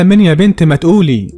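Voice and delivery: angry demand. Acted. Father pressing his daughter for her lover's name, angrily. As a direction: push hard for the name, pitch up.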